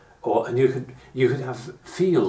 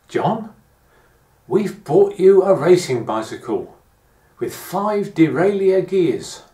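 dad announcing; 5 semitones higher, 5 dB louder, slower than usual. Retold or imitated. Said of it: "My dad had come in and said".

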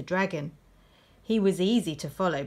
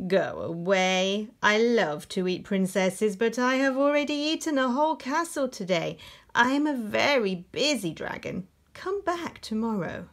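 dragon voice; 3 semitones higher than usual. Acted. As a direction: voice the dragon, rising as he goes. Dragon speaks again, same words.

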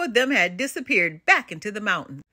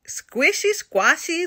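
put-on high-pitched baby giant's whimper; lightly acted whimper, pitched up high; 6 semitones higher, slower than usual. A narrator's reading. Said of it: "the giant whimpered".

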